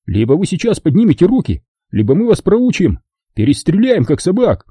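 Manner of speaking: high, heated threat; Kelly threatens the movers, heated; threatening. Acted. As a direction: push the threat, getting angry. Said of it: "начал злиться".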